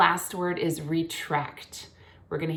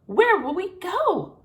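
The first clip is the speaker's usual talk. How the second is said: high, louder, slow eager cry; cygnets cry out; 13 semitones higher, 6 dB louder, slower than usual. A narrator's reading. Cygnets asking their father where they'll go, high and eager. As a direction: call out like excited baby swans. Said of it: "cried all the cygnets".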